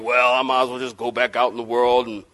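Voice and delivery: lightly voiced discouraged churchgoer; disillusioned believer. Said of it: "Maybe you've been thinking about".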